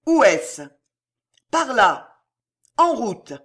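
loud, high marching calls; urgent shouting. A narrator's reading. Women rushing to the dungeon, urgent shouts. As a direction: shout directions on the move.

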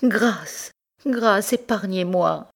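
high, slow pleading for mercy; fluttering cries for help. Acted. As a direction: beg desperately for your life. Guilty wife begging for mercy.

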